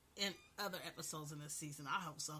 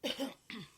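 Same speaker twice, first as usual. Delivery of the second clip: cough; 5 semitones higher, 5 dB louder than usual. Real, not acted. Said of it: "the cough or whatnot in my voice".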